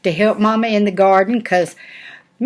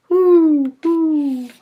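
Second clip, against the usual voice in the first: owl hoot; 7 semitones higher than usual. Acted. Nana doing the owl for her granddaughters, high hooting.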